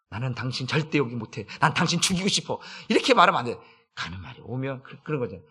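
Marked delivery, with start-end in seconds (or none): 0.1-2.6 half-laughing mock spite; a lightly voiced bitter reply, with a laugh; mock hostile spouse. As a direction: answer the apology with mock spite.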